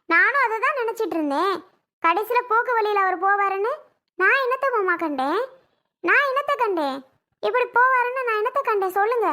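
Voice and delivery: rising into tearful protest; crying. Acted. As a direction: plead with your father-in-law through tears. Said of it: "அழாதம்மா, பிள்ளையும் அழுகுது பாரு".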